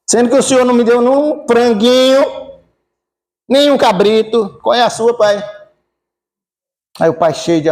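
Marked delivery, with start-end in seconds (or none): 0.1-5.4 high, indignant complaint; indignant protest. Acted. Older brother complaining to his father about the feast, indignant and high. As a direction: demand it of him, hurt and higher.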